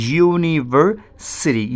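"ইউনিভার্সিটি" very slow, in separated syllables, opening on "you". Shown as a demonstration. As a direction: break "ইউনিভার্সিটি" up slowly for learners. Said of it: "ইউ মানে তো উচ্চারিত হচ্ছে". ("ইউনিভার্সিটি" খুব ধীরে ভেঙে ভেঙে)

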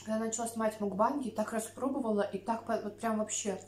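chewing between words; talking while eating salad; mouth full of seaweed. Real, not acted. Seen 1: Lifts seaweed to mouth repeatedly, chewing between phrases throughout.

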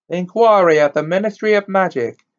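lightly voiced news bulletin; newspaper report read. A narrator's reading. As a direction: read it out like a headline story. Reads newspaper cutting aloud.

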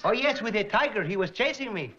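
lightly voiced comic traveler; turbaned traveler from India. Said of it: "A smiling barefoot gentleman wearing a turban".

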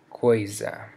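coisa with a z in the middle; z between vowels. Shown as a demonstration. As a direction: buzz the s in coisa as a z. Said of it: "S between two vowels also makes a Z sound".

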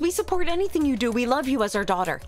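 mock desperate plea. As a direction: plead like a doting parent, half in play. Pleads with game character in mock distress.

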